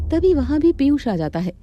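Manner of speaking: normal talking voice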